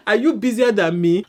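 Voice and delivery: laughing through the question; real laugh breaking into the words; half-laughing challenge to a busy husband. Real, not acted. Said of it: "I'm not even trying to be funny".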